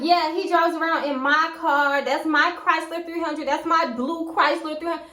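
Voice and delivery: retold, possessive insistence; indignant wife. Retelling angry wife's complaint.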